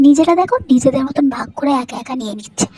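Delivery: loud, bitter complaining rant; angry rant. Acted. Daughter-in-law ranting at family over the best pieces, loud anger. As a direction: rage loudly about being cheated.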